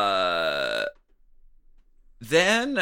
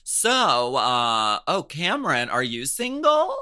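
playful mom; 3 semitones higher than usual. Retold or imitated. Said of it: "she's like".

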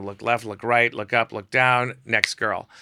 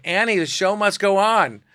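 dramatic; 10 semitones higher, 6 dB louder than usual. Retold or imitated. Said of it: "I'm like".

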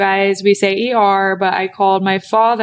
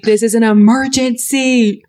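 slow, dramatic insistence; retold frustration; slower than usual. Woman frustrated her boyfriend couldn't come, hammed-up insistence. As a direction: plead urgency, stretching the key word.

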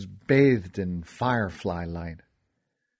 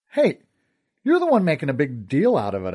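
mildly indignant, high sharp start on Hey; indignant protest; 3 semitones higher, 5 dB louder than usual. Acted. Teased narrator answering Essa back, mildly indignant. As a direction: protest at being teased, louder at first. Stung by being called a baby.

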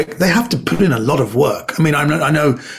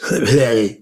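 mock grunt; 4 semitones lower than usual. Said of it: "And I go".

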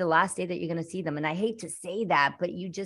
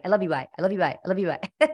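rushed; much faster than usual. Retold or imitated. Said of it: "the way he would say it".

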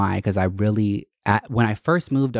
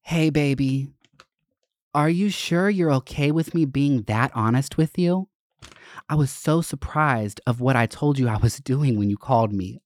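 voicing girlfriend's note; 4 semitones higher than usual. Reading ex-girlfriend's love note aloud.

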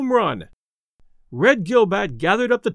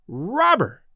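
bawled insult; 3 semitones higher than usual. A narrator's reading. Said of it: "bawled Red".

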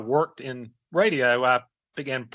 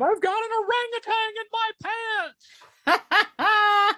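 high squealing mock scream. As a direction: shriek it way up high. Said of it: "or can they scream".

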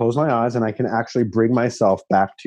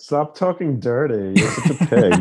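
laughing mock scold. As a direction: scold him playfully through a laugh.

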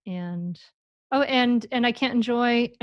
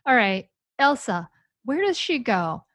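playfully clueless, climbing higher in pitch; bumbling, incompetent parent; 5 semitones higher, 3 dB louder than usual. Acted. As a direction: act comically baffled over where a toy goes. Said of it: "be really bumbling and kind of s-, pretend to be, like, incompetent".

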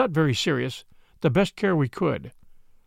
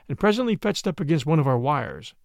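ordinary delivery, nothing marked

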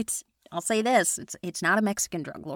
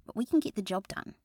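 put-on Australian accent; 2 semitones higher, 3 dB louder than usual. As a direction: say it like an Aussie mum. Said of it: "slip into that accent".

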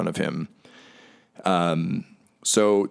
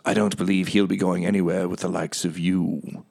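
lightly voiced cold matriarch. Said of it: "and she says".

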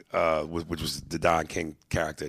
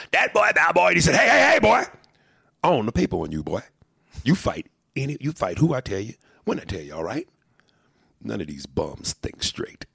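Duke impression; 5 semitones higher, 4 dB louder than usual. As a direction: lay down the law to your fighter. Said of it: "now that felt like Don King".

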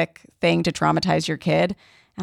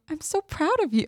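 mock proud praise; 11 semitones higher, 5 dB quieter than usual. Praising dad about ice cream.

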